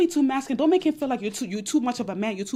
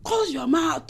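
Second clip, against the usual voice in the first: raised commanding call to shut it; sharp command; 5 semitones higher, slower than usual. Acted. Advice vlogger snapping at a mouthy woman, commanding. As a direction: order her to close her mouth.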